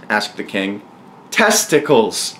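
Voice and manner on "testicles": drawn-out, high-pitched roared answer; mild roar. Acted. Daniel answering the king, roaring it slowly. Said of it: "roared Daniel".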